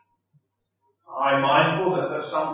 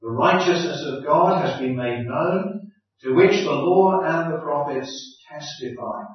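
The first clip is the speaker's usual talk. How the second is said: measured, solemn Bible reading; scripture reading. Acted. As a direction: read the passage steadily, like a lectern reading. Reads Romans aloud before sermon.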